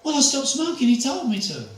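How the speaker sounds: high earnest granny voice; old lady voice. Retold or imitated. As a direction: answer simply like a devoted elderly lady. Elderly lady voiced in story.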